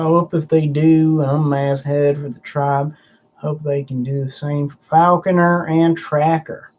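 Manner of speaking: slipping into a light Southern accent; lightly Southern-accented read-aloud. Real, not acted. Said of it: "I went into a Southern accent".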